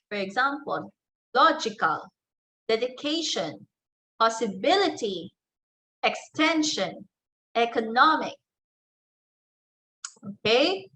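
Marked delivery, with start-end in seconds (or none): 1.3-8.3 LOG in "logical", CA in "dedication", BIL in "possibility", TEN in "extension", NOM in "economic" stressed; stress before the suffix. Shown as a demonstration. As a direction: punch the syllable before the ending, as in "dedication". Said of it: "always give the stress on the syllable that comes".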